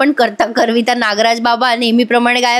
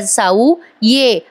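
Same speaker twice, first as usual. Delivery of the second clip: very slow, drawn-out words; slowly spoken; much slower than usual. Retold or imitated. Madhubhau calling Sau to him, slowly. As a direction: speak it slowly like a weak patient. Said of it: "ते असं हळूहळू बोलत असतात".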